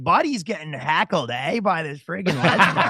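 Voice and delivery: slow West Coast Canadian drawl; West Coast Canadian accent. Shown as a demonstration. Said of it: "This was West Coast, which is more like".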